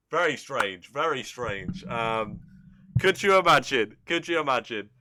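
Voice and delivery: ordinary talk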